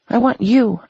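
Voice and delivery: high, pleading sob; sobbing. Acted. Melanie sobbing her love to Nobu. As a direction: cry it out to him. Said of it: "I sob".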